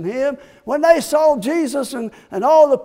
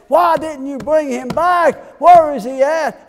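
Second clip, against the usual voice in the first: raised, demanding shout; angry demand; 5 semitones higher, 4 dB louder than usual. Acted. Authorities scolding the officers, angry raised shout.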